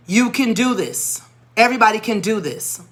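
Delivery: measured, emphatic pep talk; firm encouragement. Retold or imitated. Teacher rallying a discouraged class, firm encouragement. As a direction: reassure them firmly, word by word.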